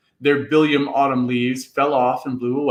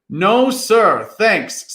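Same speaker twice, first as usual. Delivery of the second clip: nervous refusal; 5 semitones higher, 4 dB louder, much slower than usual. A narrator's reading. Boys flee the god.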